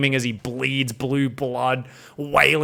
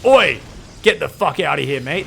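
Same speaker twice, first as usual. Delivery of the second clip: louder, a hammed-up British yell; rough oi shout; 5 dB louder than usual. Colossus yelling at the Banshees, loud mock British shout. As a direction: bark Oi at the Banshees. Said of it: "The Colossus is like".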